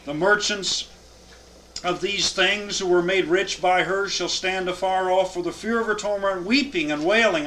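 solemn scripture reading to a class. Acted. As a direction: read the verses out with weight. Reads scripture aloud.

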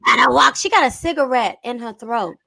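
raspy singer impression; mock singing of a well-known singer; imitating a singer. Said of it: "singing voice".

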